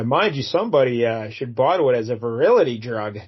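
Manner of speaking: imitating her, single syllables punched in "somebody" and "virility"; "virility" with one syllable popped out of the sentence; odd syllable emphasis. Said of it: "emphasize just one syllable of a word".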